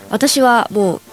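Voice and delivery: stuffy nose from hay fever; talking through a blocked nose; nasal voice. Real, not acted. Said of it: "ちょっと今、鼻声なんですね".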